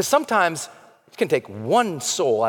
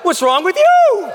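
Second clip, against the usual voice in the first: higher, louder, slower, laughing through it; laughing comeback; 13 semitones higher, 7 dB louder, slower than usual. Retold or imitated. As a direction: toss the question back with a laugh. He throws it back laughing.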